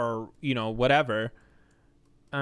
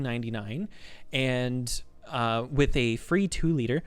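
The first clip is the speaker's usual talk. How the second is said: lightly put-on pizza order-taker; polite phone-order patter, held near one note; a hint of scripted customer service cheer. Shown as a demonstration. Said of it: "my customer service voice kinda stays at, like, a single note".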